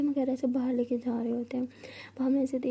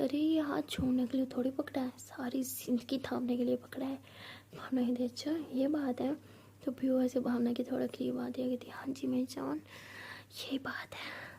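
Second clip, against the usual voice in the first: softer, close and tender; soft, intimate; 6 dB quieter than usual. Acted. Piyu softly telling Bhavna she'll hold her hand forever. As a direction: murmur it to her lover.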